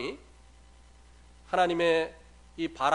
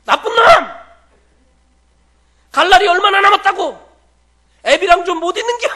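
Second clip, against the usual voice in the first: much higher and louder, furious scolding yell; angry shout; 19 dB louder than usual. Retold or imitated. Father yelling at his son for leaving, angry shout. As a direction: bellow it like a heartbroken old father. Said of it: "막 소리를 지르시는 거예요".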